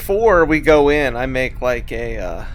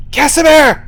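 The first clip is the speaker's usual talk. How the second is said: loud hushed call into the woods; whisper yelling; 9 dB louder than usual. Acted. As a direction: shout it but keep it breathy. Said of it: "You, like, whisper yell".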